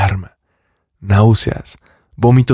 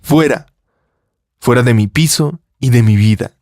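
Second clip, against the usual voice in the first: shout. Acted. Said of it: "gritó".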